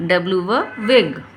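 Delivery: W for wig said very slowly, each part drawn out; slow drilled sounding. Shown as a demonstration. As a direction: stretch W for wig out slowly for a child. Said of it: "इस तरह से हम इसको पढ़ेंगे". (W for wig बहुत धीरे खींचकर)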